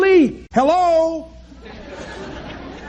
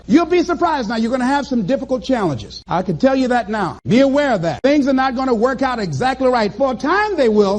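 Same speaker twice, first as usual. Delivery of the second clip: ordinary talk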